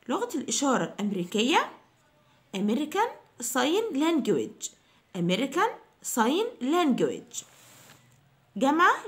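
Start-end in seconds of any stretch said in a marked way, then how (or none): 2.6-4.7 American Sign Language drawn out slowly, stress on Sign; slow model. Shown as a demonstration. Teacher repeating the phrase slowly for students. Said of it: "review, modelled slowly". 5.2-7.4 slow model. Shown as a demonstration. Teacher repeating slowly for students. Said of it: "review, modelled slowly".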